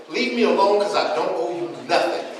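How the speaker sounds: performed indignant outburst; acted indignation. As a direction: play her telling him off. Acted quarrel with woman in line.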